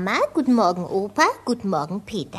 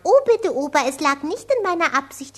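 affected prim speech. Acted. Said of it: "wenn sie so geschraubt dreht".

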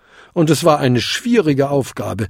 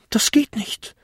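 small kobold protest; 11 semitones higher than usual. A narrator's reading.

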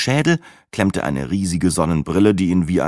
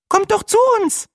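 excited chattering. A narrator's reading. Weather presenter gushing over the stickers, excited chatter. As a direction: chatter on like a startled hen. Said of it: "noch was viel Schlimmeres".

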